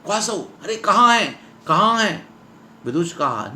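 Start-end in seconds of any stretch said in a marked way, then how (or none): 0.0-2.3 high, urgent repeated questions; lightly acted agitation; flustered alarm. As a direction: ask as if rushing up in alarm. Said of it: "ससंभ्रमं उपसृत्य".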